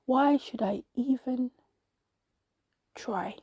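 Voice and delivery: slow, resigned, dropping away on the last word; dejected sigh. A narrator's reading. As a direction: let it sink into defeat. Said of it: "and I sighed".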